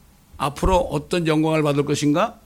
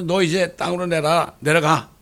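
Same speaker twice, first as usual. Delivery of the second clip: angry God; 4 dB louder than usual. Retold or imitated. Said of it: "하나님 화가 나서".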